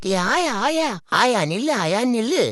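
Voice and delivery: calling after granny to wait. Real, not acted. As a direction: shout to make her stop. Calling after old woman walking off.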